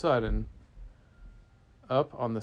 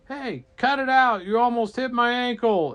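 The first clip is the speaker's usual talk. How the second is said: high, loud annoyed protest; put-on aggrieved holler; indignant shouting; 10 semitones higher, 7 dB louder than usual. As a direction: yell down at attackers. Rider shouts at attackers.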